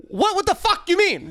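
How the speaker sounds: high, slow, drawn-out disbelief; mock outrage. Man retelling himself in the car with her, mock outrage. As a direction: imitate yourself losing patience in exasperation. Contrast to smooth talk, in car.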